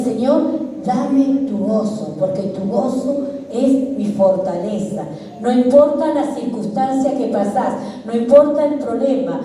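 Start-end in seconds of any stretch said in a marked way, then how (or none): 0.0-5.0 prayerful plea. Shown as a demonstration. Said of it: "Y dígale".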